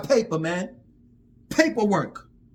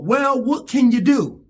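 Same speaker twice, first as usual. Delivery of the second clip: mock resigned; 2 semitones lower, 4 dB louder, slower than usual. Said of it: "quote-unquote".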